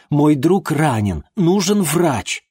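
slow, spelled-out words; spelling out the emergency slowly to the confused father; slow insistence. Acted. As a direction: say it slowly as if to someone not listening.

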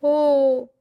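high plaintive cries of distress; acted high-pitched whimpering complaint; tearful wailing. A narrator's reading. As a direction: wail it as if ticklish and desperate. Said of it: "pleure-t-elle".

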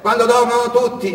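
high, loud friendly driver voice; the tourist husband calming the fleeing boy; kindly husband. Acted. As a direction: reassure the runaway boy.

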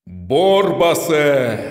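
loud, slow, ominous summons; summoning call. A narrator's reading. Sorcerer father summoning the demon, loud and slow. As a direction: call the demon forth, drawing it out.

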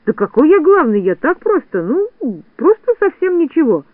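high, flustered self-defence; squirming, high-pitched excuse with hesitations; making excuses. A narrator's reading. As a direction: backpedal haltingly. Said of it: "оправдывался Незнайка".

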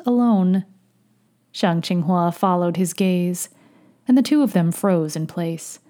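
measured, fuller-voiced audiobook read; story narration. A narrator's reading. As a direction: narrate the tale steadily and clearly. Narrates fiction aloud.

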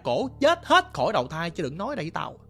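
scolding angrily. Retold or imitated. Stubborn father scolding son about ghosts, angry and loud. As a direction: tear into him, no ghosts here. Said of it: "Ổng chửi anh ba liền".

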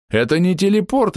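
high astonished shout; astonished yell. Acted. Alchemist yells in astonishment at the magic. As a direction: gape in disbelief. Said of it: "изумлённо проорал".

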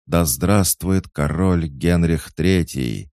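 high, slow rallying shout; crowd acclamation. A narrator's reading. Courtiers repeat the cheer for the king, shouting. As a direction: echo the cheer out loud. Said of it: "Все повторили этот возглас".

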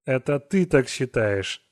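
slow dry sarcastic aside. Acted. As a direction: drawl it with scorn. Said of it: "саркастически подумал Мальерик". (саркастически, медленно)

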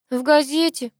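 high, incredulous echo of a question; mock amusement. A narrator's reading. Sister mocks grandmother's newspaper idea, amused. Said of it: "захохотала Геля".

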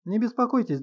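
bright quick reassurance; Не беспокойтесь lifted high and lively. A narrator's reading. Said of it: "живо сказал".

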